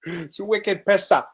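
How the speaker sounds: put-on slow, playful Boston accent. Cohost joking back about the accent, playful Boston accent. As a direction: toss in a drawn-out Boston phrase.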